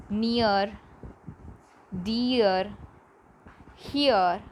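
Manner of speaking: "Near, dear, here" gliding from ee to uh; each word said singly, two-part vowel; E-A diphthong. Shown as a demonstration. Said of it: "That is E A sound".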